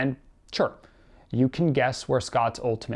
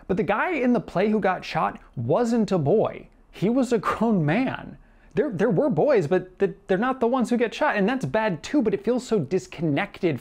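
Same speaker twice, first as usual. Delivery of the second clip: exasperated rebuttal; 8 semitones higher than usual. Real, not acted. Exasperated rebuttal in self-debate.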